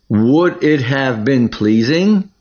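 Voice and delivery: "pleasing" rising as a real question; question tune. Shown as a demonstration. Teacher reads the line as a question for students, rising at the end. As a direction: let "pleasing" climb at the end. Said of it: "We say this as a question".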